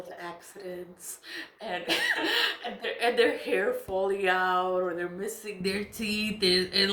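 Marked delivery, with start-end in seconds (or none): 2.7-4.8 laughing. Real, not acted. Laughing at others' misfortune.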